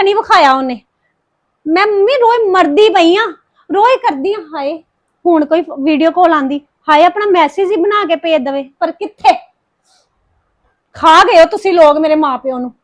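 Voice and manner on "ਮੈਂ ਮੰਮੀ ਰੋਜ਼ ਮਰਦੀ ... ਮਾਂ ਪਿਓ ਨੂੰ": tearful, anguished complaint. Acted. Daughter-in-law laments her absent husband to mother-in-law, tearfully. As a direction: lament on the verge of crying. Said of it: "ਰੋ ਨਾ ਹਰਪ੍ਰੀਤ".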